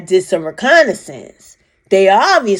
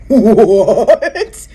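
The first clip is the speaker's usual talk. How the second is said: surprised what; 4 semitones higher, 7 dB louder than usual. Retold or imitated. Seeing the ship turn pink.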